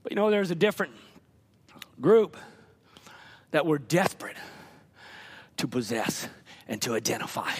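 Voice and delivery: very low, soft and halting; hushed solemnity. Real, not acted. Preacher describing desperate households, hushed and solemn. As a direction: sink to a grave hush between pauses.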